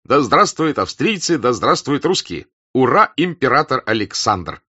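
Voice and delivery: loud, high cheering toast; joyful cheer. A narrator's reading. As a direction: cheer it out with joy. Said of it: "обратился он к немцу".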